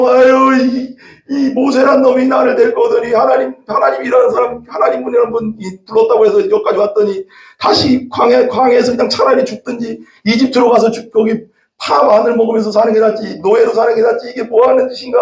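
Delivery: sobbing, lamenting, tearful crying voice. Retelling how the people complained about Moses: imitating people crying. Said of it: "막 울면서".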